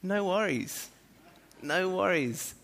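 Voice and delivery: high-pitched, falling "no worries"; favourite catchphrase. Shown as a demonstration. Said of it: "My second one is".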